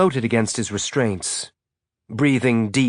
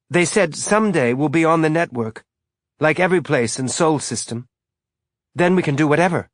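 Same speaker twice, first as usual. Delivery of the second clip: put-on higher, eager little boy; young boy voice; 6 semitones higher than usual.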